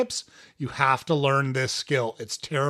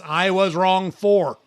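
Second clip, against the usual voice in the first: slow and emphatic; 4 semitones higher, 5 dB louder, slower than usual. Shown as a demonstration. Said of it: "remember this sentence".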